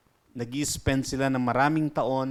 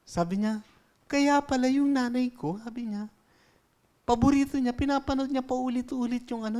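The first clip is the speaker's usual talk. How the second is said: put-on raised, childlike joke-telling voice, pitched up; high child voices; 8 semitones higher, 3 dB louder than usual. Pastor voicing children in a joke, high kid voice. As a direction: play the kids swapping stories, high and bright.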